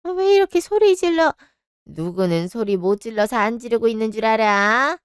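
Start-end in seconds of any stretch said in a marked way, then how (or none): 0.0-1.3 angry retort. Acted. Mother-in-law scolds shouting son.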